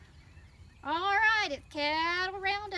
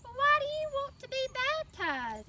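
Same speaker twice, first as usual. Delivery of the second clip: pastor's voice; 9 semitones higher, 3 dB louder than usual. Retold or imitated. Pastor's voice in told story.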